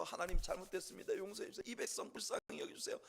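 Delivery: hushed, hurried begging toward the end; interceding plea. Acted. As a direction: plead for mercy on behalf of the people. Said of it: "중보할 사람도 없고".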